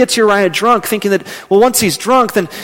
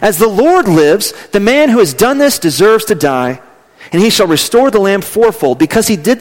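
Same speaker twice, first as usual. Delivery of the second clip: raised, angry declaration; King David flaring up in judgment; a preacher voicing the king's quick anger; 4 semitones higher, 3 dB louder than usual. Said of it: "becomes very angry very fast and says".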